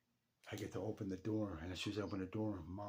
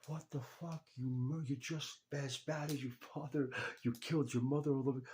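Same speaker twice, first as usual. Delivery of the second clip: higher, louder mocking outrage from the crowd; retold angry mourners; 6 semitones higher, 4 dB louder than usual. Retelling grieving relatives lashing out at him, higher and louder mock outrage. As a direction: spit it back like the hostile relatives. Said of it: "I heard some of the most stupid fucking comments".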